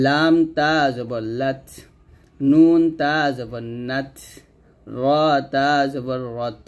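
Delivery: slow spelling, "লাত", "নাত", "রত" ending in a puff of air; hams drill. Shown as a demonstration. Teacher continues the drill for learners, slow with breathy final ত in "লাত". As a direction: draw out letter names, release breath after ত in "নাত". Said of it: "তাকে গিয়ে ধরে হামস করবেন".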